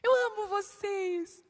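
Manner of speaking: high, slow sugary declaration; hammed-up sweet "I love you all"; mock gushing love. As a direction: parody empty sentimental love. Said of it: "Não é isso".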